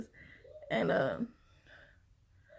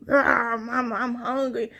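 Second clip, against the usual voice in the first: a growl, then a whiny hungry plea; growling baby voice; 4 dB louder, slower than usual. Retold or imitated. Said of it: "the baby in my belly was something growling at me".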